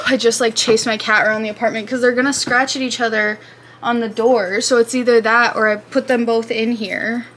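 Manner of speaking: panting after chasing the cat; breathless, gasping between words; out of breath. Real, not acted. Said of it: "I'm panting".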